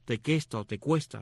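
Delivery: "tequesta" with a K sound, "tecuesta" with a KW sound; two pronunciations. Shown as a demonstration. Host explains the tribe's name to listeners, two pronunciations of "tequesta". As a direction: say "tequesta", then "tecuesta" with kwe. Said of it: "lo pronuncias al inglés o el español".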